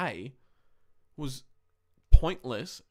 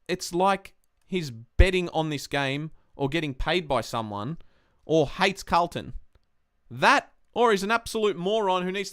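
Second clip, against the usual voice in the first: reading his own angry tweet out loud; 3 semitones higher, 4 dB louder than usual. Shown as a demonstration. Fan reads his tweet slamming the umpire, indignant. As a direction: read it out with conviction. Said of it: "I'll read it out right now".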